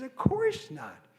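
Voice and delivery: high, slow mock scoff; mock-incredulous high scoff; high mock dismissal. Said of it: "And he says".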